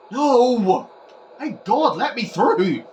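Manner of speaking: high, loud pleading yell; real gamer panic; excited shouting. Real, not acted. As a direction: urge the player on, loudly. Tense moment in match.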